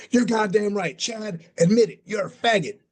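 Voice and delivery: mocking Texas accent, calling him out. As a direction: lay on a Texas accent, taunting. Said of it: "you're saying that with a Texas accent".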